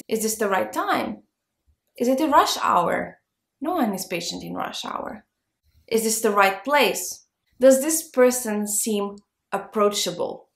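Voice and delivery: ordinary delivery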